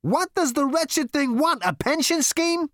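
slow, high, loud indignation; exasperated exclamation. A narrator's reading. Zaphod mocking the elevator's fear, exasperated. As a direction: draw it out in scornful exasperation. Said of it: "exclaimed Zaphod".

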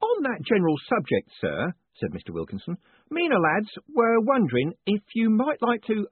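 a beaming prison warden teasing his prisoner; jovial warden. A narrator's reading. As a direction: play the cheerful warden gloating kindly. Warden asks about money.

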